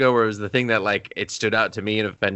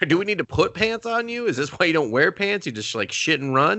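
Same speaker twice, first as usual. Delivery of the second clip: mock scolding; 6 semitones higher than usual. Scolding Sonic as Marsden.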